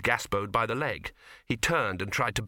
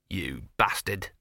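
grumbled insult; 4 semitones lower, slower than usual. A narrator's reading. Dog grumbles while running past.

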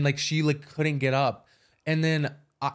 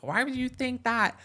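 incredulous; 11 semitones higher than usual. Retold or imitated. Retold friend's outraged question.

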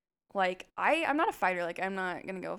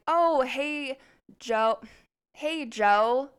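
bright high, loud hello to a friend; acted-out enthusiastic hey; friendly greeting; 5 semitones higher, 7 dB louder, much slower than usual. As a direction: call out a cheery greeting.

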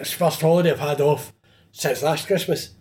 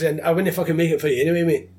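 fast, cocky brush-off; cheeky retold brush-off; defiant; 3 semitones higher, faster than usual. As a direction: rattle off the put-down. Retelling telling customer off.

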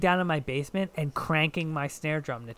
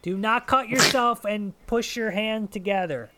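stern teacher voice, raised pitch; teacher warning; 5 semitones higher than usual. Retold or imitated. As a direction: scold like a teacher. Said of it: "being like".

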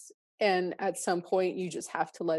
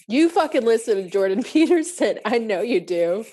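louder, higher, laughing through the words; real laughing joy at a kindred spirit; laughing excitement; 4 semitones higher, 7 dB louder than usual. Real, not acted. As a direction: burst out laughing with delight. Excited recognition between friends.

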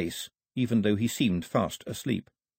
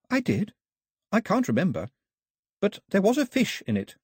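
higher, lightly voiced puzzled girl; a hint of a confused young lady; Daphne's voice; 9 semitones higher than usual. A narrator's reading. Daphne answers Carlet, puzzled.

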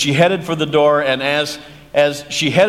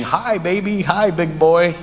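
put-on old man cooing at baby; 4 semitones higher than usual.

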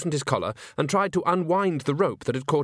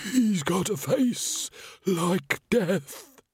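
high, very slow, haunted voice; trembling account of a terrible sight; horror-struck; 8 semitones higher, much slower than usual. A narrator's reading. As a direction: draw each word out in dread. Shaken victim describes the ghost.

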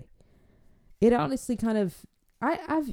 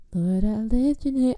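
lightly imitated fervent worshipper; mock worship; 3 semitones higher than usual. Guest asked to bless food, mock-fervent worship. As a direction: get carried away in put-on praise.

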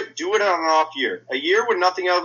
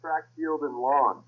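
muffled, hand over the mic; speaking into a covered mic; 6 dB quieter, slower than usual. Real, not acted. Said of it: "You're covering your mic".

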